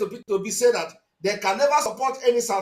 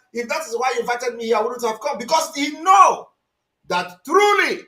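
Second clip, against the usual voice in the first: raised indignant voice; 4 dB louder than usual. Real, not acted. Commentator voicing senator, shouting.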